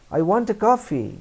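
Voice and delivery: high, loud blunt demand; blunt demand demo. Shown as a demonstration. Teacher shows the rude way to order coffee. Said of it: "না বলে আপনি বলবেন".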